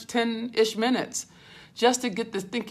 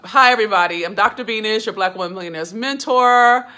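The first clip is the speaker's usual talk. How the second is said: louder, projected host introduction; bright loud intro; 6 dB louder than usual. Real, not acted. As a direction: announce yourself to the whole room. Loud energetic self-introduction to viewers.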